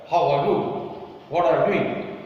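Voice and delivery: mild harsh French-English accent, slightly firmer. Shown as a demonstration. Teacher showing students how the French speak English, mildly harsh French accent. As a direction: lightly imitate a rough French accent in English. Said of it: "That is the harsh accent".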